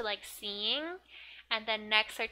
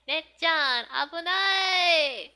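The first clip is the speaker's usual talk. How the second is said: high, loud warning shout, drawn out at the end; yelling at the TV; 6 semitones higher, 11 dB louder, slower than usual. Acted. Little girl warns her sister on TV of danger, yelling. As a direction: shout a drawn-out alarm, acted out in full voice. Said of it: "she's yelling at the T V".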